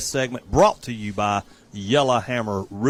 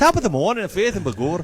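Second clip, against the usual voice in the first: hammed-up Irish accent, pitched higher; 6 semitones higher, faster than usual. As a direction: give in and do the stage Irish greeting. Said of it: "So you did do it".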